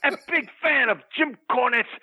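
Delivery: low, intense wrestler promo voice; wrestling promo. Acted. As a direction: cut a heel promo, low and menacing. Wrestling promo character rant.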